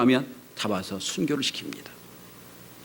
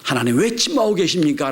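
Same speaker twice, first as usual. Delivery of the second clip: 부르짖음; 5 semitones higher, 4 dB louder than usual. Retold or imitated. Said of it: "라고 부르짖을 때".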